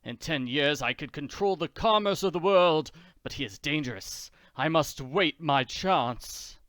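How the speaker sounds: mild villain fuming; a hint of scheming rage; angry Count. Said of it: "the Count angrily paces the room".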